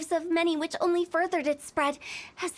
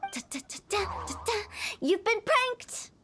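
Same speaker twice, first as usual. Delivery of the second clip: gleeful prank reveal; 4 semitones higher than usual. Acted.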